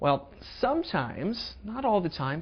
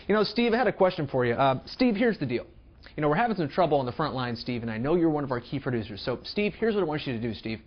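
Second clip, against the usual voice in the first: overly familiar coworker; faster than usual. Retold or imitated. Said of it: "You could walk up and say".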